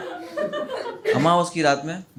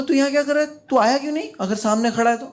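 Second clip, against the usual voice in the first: mock shout at friend; 10 semitones higher, faster than usual. Shouting at Bhura in the parking.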